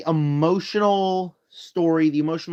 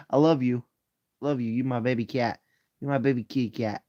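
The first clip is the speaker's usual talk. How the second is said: cooing to cat; 4 semitones lower than usual. Real, not acted. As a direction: coo at your kitty.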